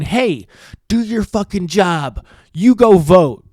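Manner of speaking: a taxpayer yelling at his Congress member to do his job; retold railing. Taxpayer railing at his Congress member, mock angry. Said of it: "I'm going".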